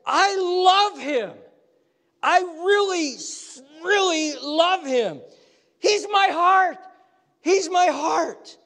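high, loud, slow proclamation from heaven; God's booming voice. Acted. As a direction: boom it out like God claiming his Son. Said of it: "But that's God saying".

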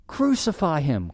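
a preacher's measured version of a crowd's cry. Acted. Preacher quoting the crowds demanding crucifixion, crying out. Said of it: "cried the crowds".

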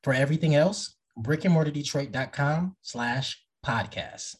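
smooth podcast ad read. Acted. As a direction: read it like a sponsor spot. Host reads sponsor ad and outro.

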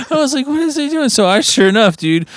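high, giggling retelling; laughing. Real, not acted. Telling the friend about the stunt, laughing hard. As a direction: talk through bursts of laughter.

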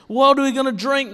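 high, loud demanding cry; angry Israelites shouting at Moses; demanding crowd. Acted. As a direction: complain bitterly to Moses. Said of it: "they demanded".

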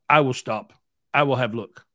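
put-on a light Eastern European accent on broken English. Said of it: "really thick Eastern European accent".

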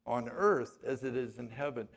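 prayer recitation. Acted.

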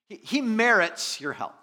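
high, loud acted plea; earnest pleading. Elders pleading with Jesus for the centurion, earnest. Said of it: "they pleaded earnestly with him".

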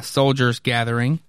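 ordinary delivery, nothing marked

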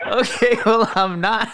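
telling the manager he is not Indian, laughing; laughing reply. Retold or imitated. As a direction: say it while giggling. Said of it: "and I was like".

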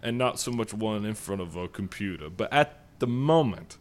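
a genteel Southern gentleman voice, hammed up; Southern gentleman accent. Podcast host opens the show in a mock Southern accent. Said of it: "I will regress to my metrosexual city accent".

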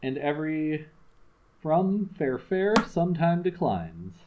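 measured recitation of a sonnet; poem reading. Acted. Reading a Shakespeare sonnet to a friend, measured recitation. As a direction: read the sonnet out with care.

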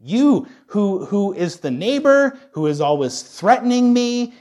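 loud, high preacher's appeal; calling out. Acted. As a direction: hail a hostile neighbor from afar. Hails a threatening neighbor.

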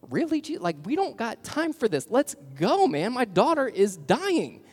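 frantic father. Retold or imitated. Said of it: "I'm sure Jerry says".

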